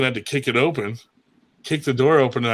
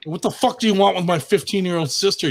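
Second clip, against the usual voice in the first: a sudden, higher-pitched burst of outrage at the man at the door; mock angry confrontation; 7 semitones higher than usual. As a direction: play the big brother catching a creep at the door.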